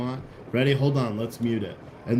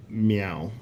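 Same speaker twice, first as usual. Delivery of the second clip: cat meow; 3 semitones lower than usual. Shown as a demonstration. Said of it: "That's how you say now in the cat voice".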